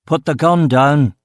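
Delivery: slow firm yell; mild yelled command. Acted. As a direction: bark the order slowly. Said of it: "I yelled at him".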